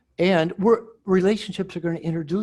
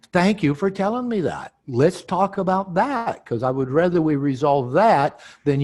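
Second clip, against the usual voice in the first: open thanks; 4 semitones higher, 5 dB louder than usual. Shown as a demonstration. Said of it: "And then you might say".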